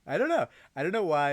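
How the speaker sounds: venting about the coworker's comments; exasperated outburst. Real, not acted. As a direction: vent the frustration.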